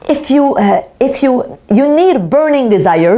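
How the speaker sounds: self-conscious English with a Québécois French accent. Real, not acted. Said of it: "vous voyez mon super accent anglais".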